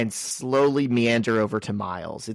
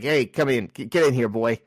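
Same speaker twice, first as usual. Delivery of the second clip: easy, friendly call to come in; casual uncle's welcome. Shown as a demonstration. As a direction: welcome a nephew in casually, nothing creepy. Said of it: "but he's like".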